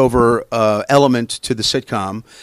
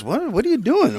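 agent; 11 semitones higher than usual. Retold or imitated. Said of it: "my agent even goes".

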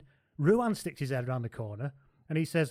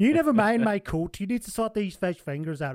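Humphries voice; 7 semitones higher, 3 dB louder than usual. Retold or imitated.

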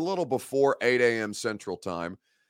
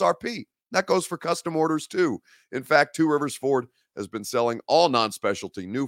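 ad read; 3 semitones higher than usual. Acted. Sponsor ad read.

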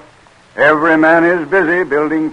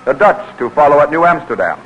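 measured, formal announcer read; radio drama narration; 3 semitones higher than usual. A narrator's reading. Announcer introducing the Delaware story, formal narration. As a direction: set the historical scene like an old radio narrator.

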